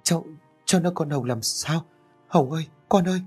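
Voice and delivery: put-on an old mother learns her daughter died, crying out high; stricken wail. A narrator's reading. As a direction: cry out the daughter's name in shock. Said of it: "miệng ú ớ".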